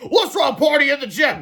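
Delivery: high, loud cheering call; gleeful shout. A narrator's reading. Mister Meaner cheering over the boys, high loud shout. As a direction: shout it like a party. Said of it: "shouted Mister Meaner".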